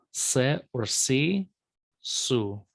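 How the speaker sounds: "se, or si, su" each with a Semitic emphatic S. Shown as a demonstration. Teacher reading the sibilant chart to students, emphatic S. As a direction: give every S in "se, or si, su" the emphatic sound. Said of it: "emphatic consonant sounds a little different".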